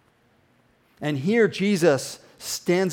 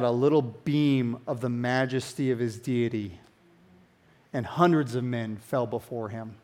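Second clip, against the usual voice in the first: softer, lower, full of awe; awed hush; 5 semitones lower, 6 dB quieter than usual. Real, not acted. Preacher marvelling at Christ's majesty, soft and awed. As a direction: let it drop into reverent quiet.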